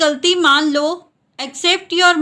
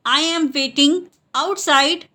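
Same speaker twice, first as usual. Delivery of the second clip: word groups separated. Shown as a demonstration. Teacher repeats the English for learners, word groups separated. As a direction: pause before "outside".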